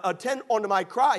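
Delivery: high, emphatic repeat stressing CRY; emphasis on CRY. Shown as a demonstration. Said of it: "emphasis there".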